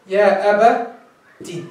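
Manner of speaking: يا أبتي very slow, broken before the final "tii"; drawn-out teaching pronunciation of يا أبتي; slow breakdown. Shown as a demonstration. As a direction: split يا أبتي into slow parts, isolating the last syllable. Slow breakdown of the taught form.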